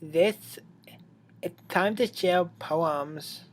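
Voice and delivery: slow, even robotic Monica; spaced, mechanical announcement. Acted. Monica announces poem time to the club. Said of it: "I did the robot voice".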